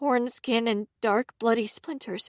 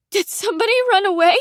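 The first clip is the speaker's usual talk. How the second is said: high, fast, bewildered; fast confused question; 10 semitones higher, 4 dB louder, faster than usual. A narrator's reading. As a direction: blurt it out confused. Sleepy confused sister.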